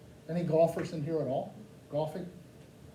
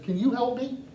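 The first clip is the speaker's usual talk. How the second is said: yelling tourist; 6 semitones higher than usual. Retold or imitated. American tourist yelling for help at tour guide. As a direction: bellow it like volume helps. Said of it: "I yelled at him".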